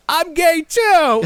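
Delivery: very high, drawn-out toy voice; hammed-up joyful little declaration; action figure confession. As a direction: squeal it slowly as a tiny figure.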